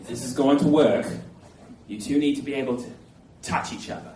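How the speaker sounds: mock Australian accent, sinking to a hush; Steve Irwin. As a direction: lay down terms in a low, caricatured Australian voice. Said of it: "My only experience with the Australian accent is Steve Irwin".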